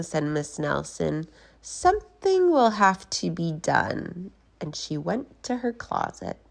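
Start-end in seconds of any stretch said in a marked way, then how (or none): 1.6-4.3 scheming voice. Acted. Scheming teacher.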